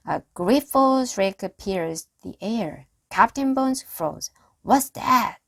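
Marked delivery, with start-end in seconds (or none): 4.6-5.4 sudden loud question; shouted. A narrator's reading. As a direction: shout out in alarm. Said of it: "he shouted".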